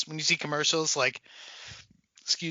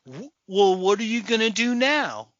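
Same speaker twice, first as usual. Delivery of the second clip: higher-pitched, stagey question; mock movie delivery; 4 semitones higher than usual. Mocking a line nobody says, stagey delivery. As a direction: pose it like stilted film dialogue. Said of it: "instead of like".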